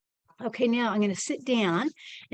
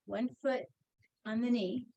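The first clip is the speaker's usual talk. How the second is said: softer, sitting back away from the microphone; far from the mic; 6 dB quieter than usual. Real, not acted. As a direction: talk from the chair, off mic. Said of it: "Hopefully you can hear me".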